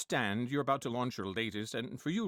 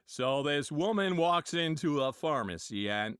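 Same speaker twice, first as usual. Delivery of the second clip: John Wayne impression. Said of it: "John Wayne was".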